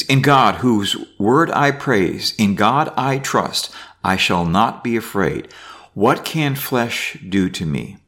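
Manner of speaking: reading scripture aloud. Acted. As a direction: read the psalm out to the class. Reads psalm aloud.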